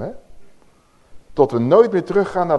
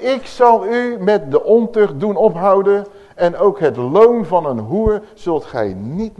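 louder, higher proclamation; emphatic repeat; 4 semitones higher, 4 dB louder, slower than usual. Shown as a demonstration. Preacher repeats the verse to the congregation, louder and higher. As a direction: proclaim it again with force. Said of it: "Nog een keertje".

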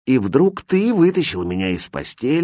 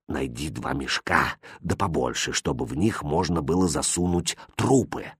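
quiet warning; 6 semitones lower, 9 dB quieter than usual. A narrator's reading. The innkeeper hushing his impatient son. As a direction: hold him back in a murmur. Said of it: "так же тихо".

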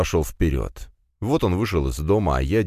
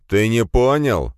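louder, slower, cutting; sharp harsh tone; 5 semitones higher, 5 dB louder, slower than usual. Acted. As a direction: snap it out harshly. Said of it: "не понижая резкости в тоне".

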